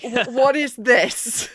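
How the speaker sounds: slow, stunned question; aghast. Retold or imitated. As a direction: stare in disbelief at the girl. Parents aghast at Miria.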